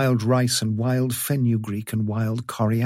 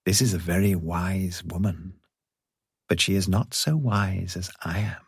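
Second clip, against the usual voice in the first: low, smug aside; lofty cat, quietly superior; snooty bored cat; 3 semitones lower, 3 dB quieter than usual. Acted. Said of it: "said the cat, listening".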